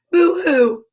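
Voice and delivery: badly faked high boo-hoo; mock crying, spoken as words; fake baby cry. Joking that babies don't cry like that, fake boo-hoo. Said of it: "They just walked around going".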